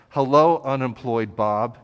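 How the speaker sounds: loud, hammed-up hello to unemployed Bob; mock greeting. Imagined shopper greeting Bob in the store, mock loud hello. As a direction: playfully bellow the greeting.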